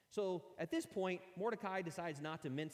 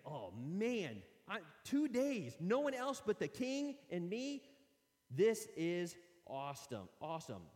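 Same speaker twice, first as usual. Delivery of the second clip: gleeful excitement; 2 semitones higher, 3 dB louder than usual. Acted. Haman excited by the invitation.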